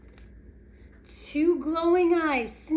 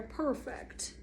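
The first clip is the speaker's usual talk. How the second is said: whispered; 3 semitones lower, 12 dB quieter than usual. Real, not acted. Aside while setting scene.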